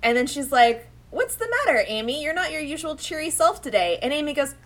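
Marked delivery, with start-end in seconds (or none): 1.1-4.0 high, caring little cat voice; concerned cat. Retold or imitated. Host voicing Luna asking Amy what's wrong, high. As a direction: ask gently like a worried pet.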